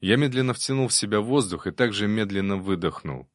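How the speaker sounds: plain reading voice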